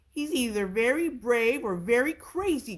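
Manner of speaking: loud, high lion's growl; a hint of a growl; lion marvelling at the mouse. A narrator's reading. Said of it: "growled a lion".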